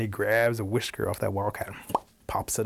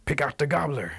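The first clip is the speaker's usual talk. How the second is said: raised, higher-pitched call; sudden commanding call; calling the signal; 6 semitones higher than usual. Acted. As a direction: cry out the secret cue over the dancing. Rabbit's sudden signal to wildcat.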